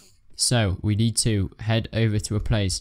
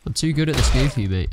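fast, higher, louder gloating; cocky taunt; 4 semitones higher, 4 dB louder, faster than usual. Pretend. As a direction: rub it in, playful bragging. Taunting enemy in battle.

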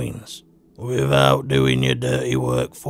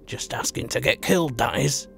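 snarl through gritted teeth. Acted. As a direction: growl it at the intruder through clenched teeth. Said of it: "he snarled through gritted teeth".

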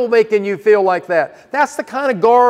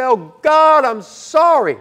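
quick apology; 5 semitones higher, slower than usual. Pretend. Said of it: "you better quickly say".

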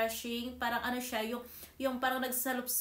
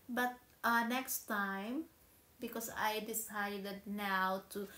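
talking while rubbing chin; fingers touching lips; slower than usual. Real, not acted. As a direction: hand partly covering mouth. Seen 0: fingers spread mask cream on chin and lips while speaking.

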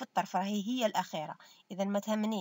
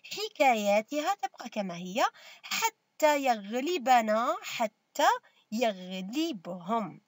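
slow dictation; slower than usual. Shown as a demonstration. Teacher repeats a sentence for pupils, slow dictation. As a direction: read out slowly in formal Arabic, phrase by phrase.

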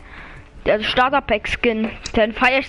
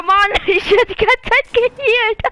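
laughing; 9 semitones higher, 4 dB louder than usual. Real, not acted. Laughs while being healed.

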